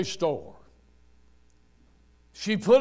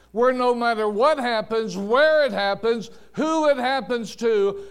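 driving, raised-voice sermon delivery; impassioned preaching; 3 semitones higher, 3 dB louder than usual. Real, not acted. Preacher urging the congregation to give thanks through heartbreak, impassioned preaching. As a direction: build insistently to a punched last word.

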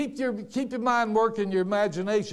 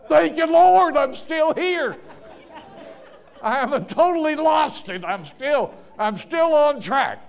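loud, high, laughing praise; laughing thanks; 6 semitones higher, 5 dB louder than usual. Real, not acted. Preacher laughing at himself for losing his place.

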